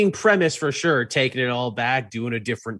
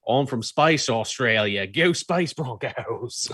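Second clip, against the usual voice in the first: a hammed-up Aussie twang, slowing right down at the end; lightly put-on Australian accent, drawn out at the close; mock Australian accent; 3 semitones lower, slower than usual. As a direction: play a cheeky Aussie bloke, lightly. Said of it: "You make Lobo sound Australian".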